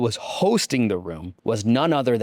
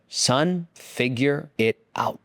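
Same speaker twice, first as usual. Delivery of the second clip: dad; much slower than usual. Retold or imitated. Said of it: "He said".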